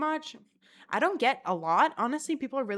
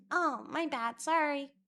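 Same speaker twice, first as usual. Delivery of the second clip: sheepish apology; 6 semitones higher than usual. Acted. Imagined sheepish apology to stranger.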